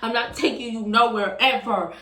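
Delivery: mildly heated retold rant; mad ranting. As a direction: imitate his angry ban with a touch of force. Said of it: "He was mad as fuck".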